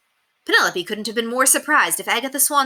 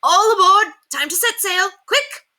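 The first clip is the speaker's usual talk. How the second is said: high, loud cheerful shout; calling out; 14 semitones higher, 7 dB louder than usual. A narrator's reading. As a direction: call it like a ship's captain. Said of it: "Simon called out".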